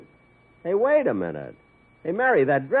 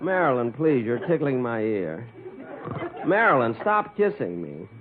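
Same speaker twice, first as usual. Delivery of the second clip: sleep talking; 3 semitones higher than usual. Acted. Boss dreaming of actresses.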